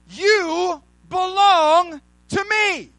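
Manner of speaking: slow, drawn-out, lightly voiced God claiming his own; a hint of God's voice, slow and sure. God speaking to his redeemed people, slow and solemn.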